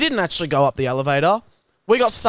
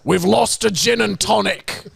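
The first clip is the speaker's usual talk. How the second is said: put-on old friend, deadpan; 3 semitones higher than usual. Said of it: "And he's like".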